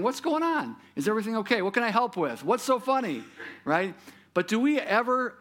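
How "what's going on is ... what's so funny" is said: a sudden high-pitched what's going on; concerned asking. Retold or imitated. Preacher voicing a bystander who sees someone crying, high concerned asking. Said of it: "see someone crying or someone laughing".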